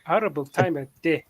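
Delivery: mock African accent with measured delivery. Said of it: "only one of them has an accent".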